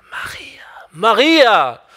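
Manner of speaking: "Maria" barely voiced, just air; whispered. Shown as a demonstration. Preacher tries the name as Jesus might, whispering. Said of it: "wie ich das folgende Wort ausspreche".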